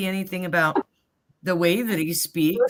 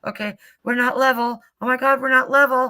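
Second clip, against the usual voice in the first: retold panic. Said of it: "I'm totally quiet and I'm going".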